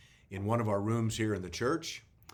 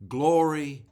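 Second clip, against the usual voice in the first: Glory cried out much higher and louder; shouted glory; 5 semitones higher, 9 dB louder than usual. Acted. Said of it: "with each one shouting".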